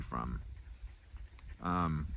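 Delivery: talking around pipe stem; pipe in mouth. Real, not acted. Seen 0: Stem in mouth at 1.7-2.8 and 4.0-5.8; otherwise held near.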